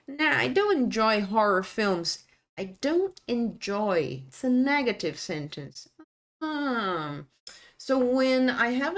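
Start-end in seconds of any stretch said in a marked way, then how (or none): 0.1-2.2 "don't" stressed with falling tune; falling answer. Shown as a demonstration. Teacher modelling the negative sentence, falling. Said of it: "And then when I say". 2.6-4.2 "I don't enjoy" slowly, stressing "don't"; slow emphasis. Shown as a demonstration. Teacher highlighting the contraction, slow. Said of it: "Notice these details".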